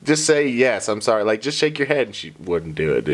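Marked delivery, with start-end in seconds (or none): 0.0-2.1 high-pitched parent at breaking point; retold desperate pleading. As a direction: imitate begging a stubborn toddler for any sign. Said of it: "I broke down to the point".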